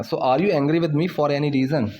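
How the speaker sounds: slow, deliberate example sentence; slow teaching demo. Shown as a demonstration. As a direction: lay each word out slowly. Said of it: "ऐसे हम बोलते हैं". (धीरे-धीरे समझाते हुए)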